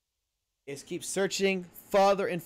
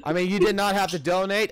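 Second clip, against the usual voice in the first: excited thanks; 6 dB louder than usual. Real, not acted. Thanking a donor, laughing.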